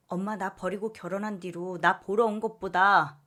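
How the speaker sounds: resentful firm tone; firm refusal. Acted. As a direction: daughter shutting her mother out. Daughter refuses mother coldly.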